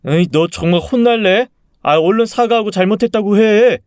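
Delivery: high-pitched, threatening parental scold; exasperated scolding. Acted. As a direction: order the child, losing patience. Father threatens child with punishment.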